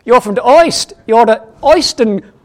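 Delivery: put-on loud comic German accent, pitched high; mock German accent. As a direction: push the German vowels for laughs. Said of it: "Sorry about the German accent".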